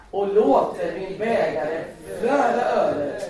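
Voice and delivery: psalm recited from the pulpit, loud and fervent; fervent psalm recitation. Acted. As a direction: proclaim each verse with rising fervour.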